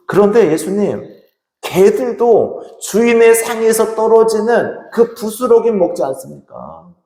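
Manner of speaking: high, drawn-out appeal; acted plea of a desperate mother; pleading. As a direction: plead for crumbs of mercy, stretching the words. Acts woman pleading with Jesus.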